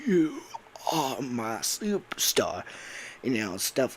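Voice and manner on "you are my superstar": slow, faltering robot's last words; dying Freddy. Acted. Freddy nearly dead in one ending, faltering.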